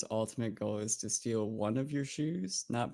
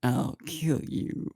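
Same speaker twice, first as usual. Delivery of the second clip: slow, menacing mock threat; impression of Jack; slower than usual. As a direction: drawl it out like a joking villain. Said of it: "best impression of a line the other says".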